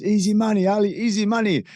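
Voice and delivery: high, put-on gloating voice; Henry Cejudo impression. Cejudo gloating to Ali about the bet, high mock voice. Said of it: "he goes".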